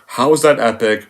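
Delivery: ordinary delivery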